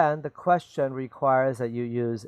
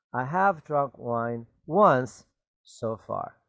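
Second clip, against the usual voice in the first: slow model sentence; slower than usual. Shown as a demonstration. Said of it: "Notice the word once".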